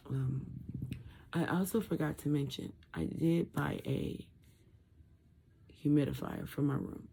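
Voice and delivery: garbled, muffled post-surgery speech. Real, not acted. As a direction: talk through a swollen throat, muffled. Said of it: "feels like I'm talking garbled".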